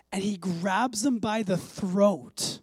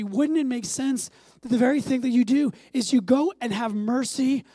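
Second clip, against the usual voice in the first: louder, higher, pleading exhortation; impassioned preaching; 5 semitones higher, 7 dB louder than usual. Acted. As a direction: drive it home with fire.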